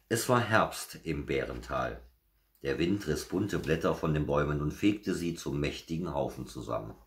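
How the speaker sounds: measured, lively storybook narration; animated bedtime-story telling; story reading to children. A narrator's reading. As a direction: read a picture book to little listeners. Reads children's story aloud.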